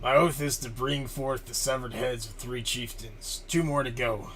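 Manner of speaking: lightly voiced warrior swearing an oath; Kuv. Warrior vows three chieftains' heads, lightly put-on impression. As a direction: declare it with a hint of character. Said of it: "like my best Kuth impression".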